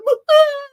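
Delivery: high, loud imitated outburst; sudden high mock bawling; mock wail. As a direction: burst out in a put-on wail. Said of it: "and it's like".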